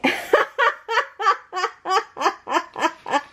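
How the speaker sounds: long high giggle; a real high, rattling run of laughter; helpless high-pitched laugh; laughing fit. Real, not acted. Laughs at her own mistake.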